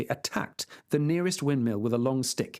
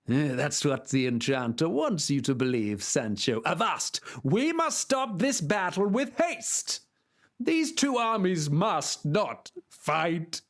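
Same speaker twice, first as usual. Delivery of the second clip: knight voice; 3 semitones higher, slower than usual. Acted. Knight rallies.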